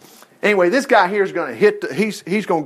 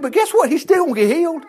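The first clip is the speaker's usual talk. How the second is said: excited reveal; 9 semitones higher than usual. Real, not acted. Preacher telling listeners the angry man still gets healed, excited. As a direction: leap up high on guess what. Preacher teases the good news.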